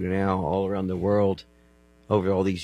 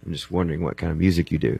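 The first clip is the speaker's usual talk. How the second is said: deep voice; 3 semitones lower, 3 dB louder than usual. Retold or imitated. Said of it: "He has this really deep voice".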